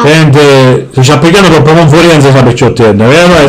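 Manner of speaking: low, heavy father voice; gruff Sicilian dad. Acted. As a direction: boom it out like a grumpy papà. Father again.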